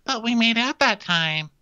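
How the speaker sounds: mock wounded suitor. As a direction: play a clingy lover who can't believe it. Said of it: "He's like".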